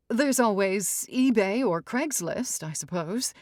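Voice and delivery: shrill-pitched society mother; fussy matriarch. Acted. Mrs Evers voice.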